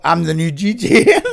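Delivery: tag. Retold or imitated. Retells his cheeky announcement.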